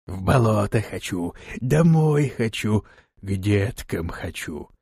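a strange drawn-out creature moan, slow; creature wail. Acted. Kikimora moaning to be taken home, slow creature wail. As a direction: moan it like a homesick bog creature. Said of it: "завыла Кикимора".

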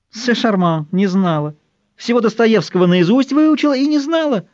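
high, sing-song parody of her words; mocking mimicry. A narrator's reading. Chimera mimics the old woman's denial, high and mocking. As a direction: throw her own words back at her.

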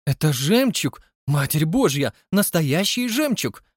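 thrilled. Acted. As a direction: gasp at real pearls. Debora thrilled by pearls. (восторженная женщина, выше и громче)

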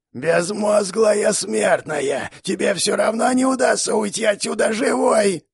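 high, slow, hoarse monstrous shout; wheezing monster. Acted. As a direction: rasp out contempt like a beast. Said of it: "прохрипела жердяйка".

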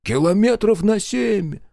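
high, loud and slow, aghast; gasp of disbelief. A narrator's reading. The commander gasps at the scout's seven-kilometre detour. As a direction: gasp it back in horror. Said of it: "ахнул Марков".

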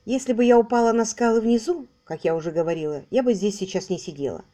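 even, emotionless retelling; flat detached account. Acted. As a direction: report it without feeling. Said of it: "Рэйчел безучастным тоном рассказала".

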